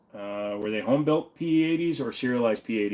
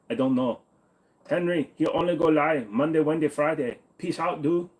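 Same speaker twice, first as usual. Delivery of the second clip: higher-pitched, hammed-up Asian accent; mock Asian accent; 5 semitones higher than usual. Shown as a demonstration. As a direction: keep the put-on Asian accent going. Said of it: "Can you do an Asian accent?".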